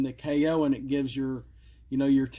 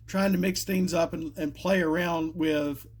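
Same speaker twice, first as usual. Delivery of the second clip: cracking voice, real. Real, not acted. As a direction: voice breaking mid-phrase. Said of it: "sorry, my voice is cracking".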